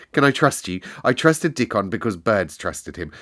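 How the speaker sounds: earnest pleading; a touch of anxious pleading; imploring. Acted. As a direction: beg him to be trustworthy. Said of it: "she implored".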